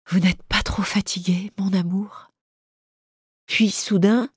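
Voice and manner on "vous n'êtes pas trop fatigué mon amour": with a contained smile. Acted. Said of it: "répéta comme pour elle-même, avec un sourire contenu".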